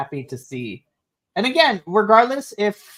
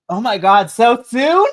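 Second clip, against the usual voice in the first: louder, higher shocked disbelief; 7 semitones higher, 9 dB louder than usual. Retold or imitated. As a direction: react in disbelief. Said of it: "And I'm like".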